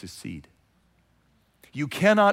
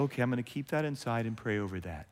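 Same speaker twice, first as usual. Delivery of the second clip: quiet resolve; 5 semitones lower, 9 dB quieter, faster than usual. Acted. The calm response people never give.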